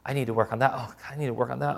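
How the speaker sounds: soft, self-reproaching mock confession; condemned moralist. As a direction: sigh it out, acting mildly weighed down by guilt. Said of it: "look at them and feel condemned".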